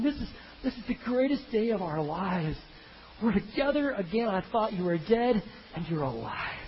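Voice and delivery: acted reunion rapture, pitched high; overwhelmed joy. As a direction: marvel at having family back. Weeping reunion voiced by preacher.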